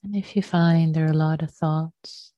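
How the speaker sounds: unhurried meditation teacher, leaving long pauses; guided meditation. Real, not acted. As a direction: gently guide them into the breath, phrase by phrase.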